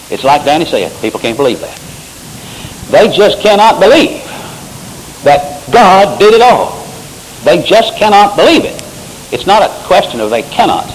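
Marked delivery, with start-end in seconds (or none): 2.9-8.8 preaching emphasis. Real, not acted. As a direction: drive it home from the pulpit. Preacher pressing his point.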